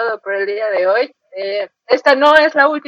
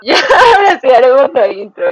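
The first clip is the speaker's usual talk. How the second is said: laughing; 5 dB louder than usual. Real, not acted. Cracking up in blooper.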